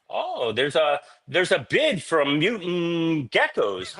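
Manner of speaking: high, slow, dreamy mock wife voice; imitating tipsy wife. Husband imitates his tipsy wife bidding at the auction, high and slow.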